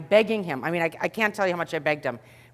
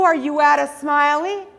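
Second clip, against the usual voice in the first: sweet trainee; 8 semitones higher, 6 dB louder than usual. Retold or imitated. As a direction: earnestly ask the pain-scale question. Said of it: "he says".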